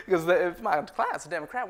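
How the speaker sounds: loud words through laughter; laughing. Acted. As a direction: keep laughing at your joke as you explain. Laughing at own joke.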